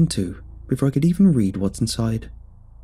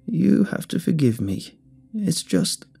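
higher, slow, crackling plea; cracking voice; 7 semitones higher, slower than usual. A narrator's reading. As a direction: let the voice crack. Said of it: "her voice began to change".

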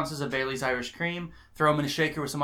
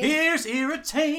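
announcer voice; 12 semitones higher than usual. Acted. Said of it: "Your favorite voice".

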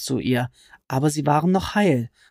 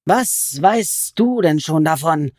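slow, spat goblin retort; goblin hissing; 3 semitones higher, 4 dB louder, slower than usual. Acted. Goblin snapping back at Alice, a hissed retort. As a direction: hiss it back at her. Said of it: "fauchte der Kobold".

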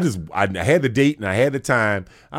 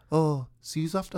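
a light New Zealand "see za-fter", higher; New Zealand accent; 7 semitones higher, 5 dB quieter than usual. Retold or imitated. Auditioner leaving the room, light New Zealand accent. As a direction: toss off the farewell like a Kiwi. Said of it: "they have a saying in New Zealand".

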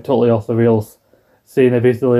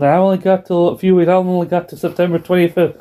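mock Eddie; 6 semitones higher than usual. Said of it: "he keeps saying it".

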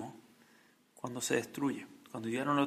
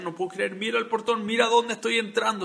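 rising higher and louder in astonishment; amazed wonder; 6 semitones higher, 6 dB louder than usual. Retold or imitated. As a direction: marvel at the gate as if seeing it first. Great man marvels at the gate. (el gran hombre, maravillado ante el portón, cada vez más alto y fuerte)

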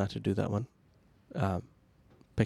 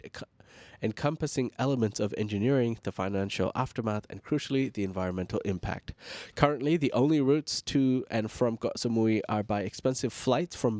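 steady news anchor delivery; news read. Acted.

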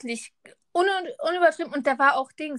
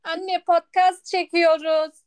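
slow raised call to mom; 4 dB louder, slower than usual. Real, not acted. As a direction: call out to mom in another room. Calling out to mother.

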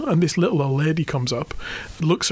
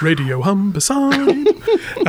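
radio DJ voice; 4 semitones higher, 3 dB louder, much slower than usual. Shown as a demonstration. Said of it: "mimicking the jingle".

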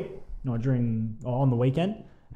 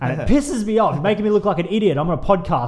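mock angry rant; 3 dB louder than usual. Mock rant about tipping badly.

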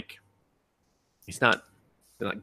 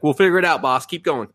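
lightly voiced eager little helper, raised pitch; little brain; 5 semitones higher, 5 dB louder than usual. Little brain reassures its boss, lightly acted and higher. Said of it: "my little brain in the back was like".

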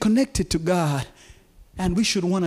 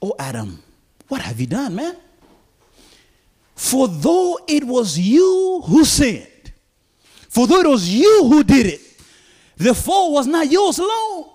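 lament; 7 semitones higher, 5 dB louder than usual. Retold or imitated. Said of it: "He says".

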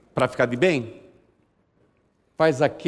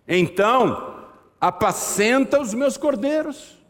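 Jesus speaking; 7 semitones higher, slower than usual. Acted. Jesus voiced in sermon.

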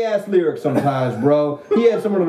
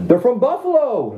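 emphatic shout; 4 semitones higher than usual. Real, not acted. Loud insistence in banter.

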